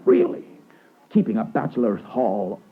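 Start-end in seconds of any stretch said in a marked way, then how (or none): 0.1-0.5 can't believe what you're seeing; rising astonishment ending in a squeak; incredulous realisation. Acted. Lawyer realises Bartleby lives there.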